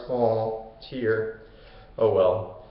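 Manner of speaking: low, quiet token pity; mock sadness. Heroes pity the dead centaurs, half-hearted sorrow. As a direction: feign a brief sorrow, then shrug it off.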